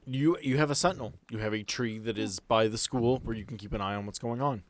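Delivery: ordinary talk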